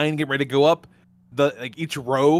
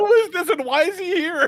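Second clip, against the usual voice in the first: put-on confused little kid. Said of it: "He'd have been like".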